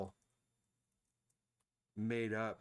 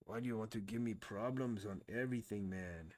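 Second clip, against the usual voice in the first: put-on Balki Bartokomous accent. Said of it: "I don't know what accent that was".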